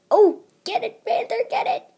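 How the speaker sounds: high giggly pun delight; laughing. Real, not acted. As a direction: laugh at your own joke.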